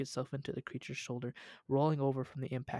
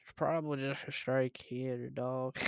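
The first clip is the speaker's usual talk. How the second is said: lightly voiced young officer; younger officer's voice. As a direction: read it in a slight character voice. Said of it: "read that voice".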